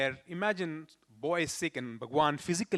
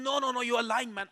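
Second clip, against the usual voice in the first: higher mock protest; sick boy refusing to believe the news, higher teasing protest; playful disbelief; 7 semitones higher than usual. No no no, pitched up.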